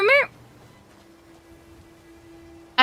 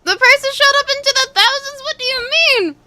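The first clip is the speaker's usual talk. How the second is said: surprised disbelief; 10 semitones higher, 4 dB louder than usual. Real, not acted. Reacting to chat news.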